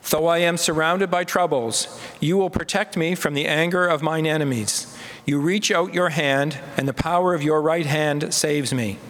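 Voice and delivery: responsive psalm reading. Acted. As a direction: lead the psalm so all can join.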